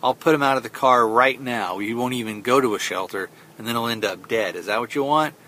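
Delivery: mildly heated mock threat; retold mad dad. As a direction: imitate a dad losing patience. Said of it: "so he gets mad at her".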